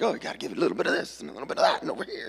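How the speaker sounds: fast, eager demo voice as the grandparents; playful imitation of grandparents showing dance moves; grandparents teaching a dance. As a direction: rattle it off like a coaching granny. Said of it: "They're like".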